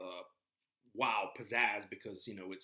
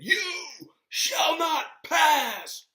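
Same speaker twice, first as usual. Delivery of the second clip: booming, drawn-out wizard command, higher and much louder; imitating Gandalf; 15 dB louder, much slower than usual. Lecturer booming Gandalf's stand against the Balrog. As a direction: thunder it out like Gandalf facing the Balrog. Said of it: "check the clips out on YouTube where he took his, uh, sword and staff".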